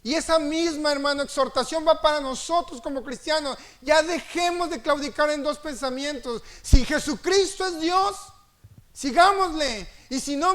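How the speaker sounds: Elijah's challenge thundered from the pulpit; fiery scripture reading. Acted. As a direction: hurl the prophet's question at the crowd. Preaching at full force.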